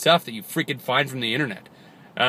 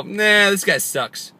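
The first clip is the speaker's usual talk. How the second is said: mock disdain; 6 semitones higher, 3 dB louder, much slower than usual. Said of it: "Or, you know".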